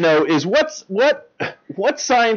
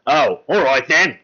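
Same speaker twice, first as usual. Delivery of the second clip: put-on British accent; 3 semitones lower, slower than usual. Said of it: "Why is he talking like that?".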